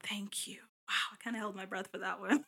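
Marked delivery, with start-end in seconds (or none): 0.0-0.6 relieved whisper. Real, not acted. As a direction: sigh it out in a whisper. Relieved after held breath.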